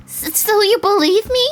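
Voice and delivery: put-on high, loud, thrilled girl; overjoyed stammer. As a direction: stumble into it with giddy hope. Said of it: "looked like she was at a loss for words".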